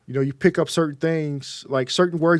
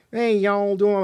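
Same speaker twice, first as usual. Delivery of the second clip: higher, mock Georgian accent; imitated Southern accent; 4 semitones higher, slower than usual. Imitating fiancee teasing a Texan, mock Southern accent. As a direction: lightly put on a Georgia drawl. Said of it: "she started doing her accent".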